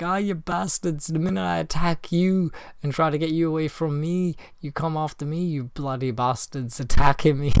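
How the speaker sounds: half-hearted high-pitched mock rant; retold screaming. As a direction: imitate a friend ranting at moths, without full volume. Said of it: "he's screaming at".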